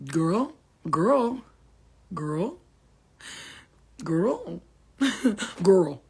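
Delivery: sassy exaggerated girl call; drawn-out girl. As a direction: sing out girl.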